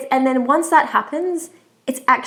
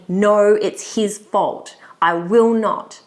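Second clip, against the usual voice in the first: stubborn inner refusal; much slower than usual. Retold or imitated. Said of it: "everything inside of you is screaming".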